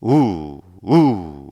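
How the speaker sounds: short punched oo sounds; repeated oo pulses; diaphragm pulses. Shown as a demonstration. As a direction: kick each oo from the belly. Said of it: "횡격막으로".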